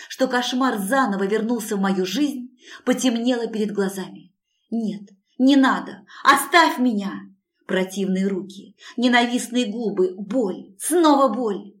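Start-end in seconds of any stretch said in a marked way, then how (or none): 4.7-7.1 crying, louder and higher; a victim crying out as her attacker grabs her; terrified pleading. A narrator's reading. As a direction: beg him to stop through tears. Heroine begs under attack.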